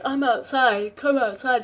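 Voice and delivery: loud mock call-out; imitated caller shout. Prank caller telling the girls to come out, loud mock call-out. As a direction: imitate a caller loudly summoning someone. Retold creepy caller calling them out.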